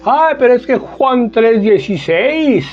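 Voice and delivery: mock the brothers reciting by rote, fast and high; parroting by rote. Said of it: "Y lo dicen de corrido, como loros".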